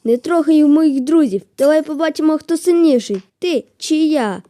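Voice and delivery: hammed-up fighting talk; mock challenge. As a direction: square up to the enemy. Challenging enemy.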